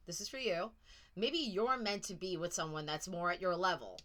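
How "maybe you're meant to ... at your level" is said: deliberately talking down to them; condescending. Real, not acted. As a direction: put them in their place, a little superior. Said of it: "I know that sounded condescending, and it was meant to".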